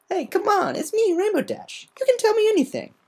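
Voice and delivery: high, warmly coaxing voice. Acted. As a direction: reassure her kindly. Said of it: "Rainbow Dash smiled warmly".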